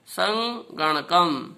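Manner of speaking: संगणकम drawn out slowly, each syllable सं-ग-ण-कम separated. Shown as a demonstration. Teacher repeats संगणकम for pupils, very slowly. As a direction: spell out संगणकम slowly for the class. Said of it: "इसे बोल के देखेंगे".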